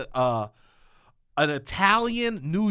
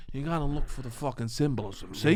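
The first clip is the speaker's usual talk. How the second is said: lecturing dad impression; 5 semitones lower, 5 dB quieter than usual. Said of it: "He goes".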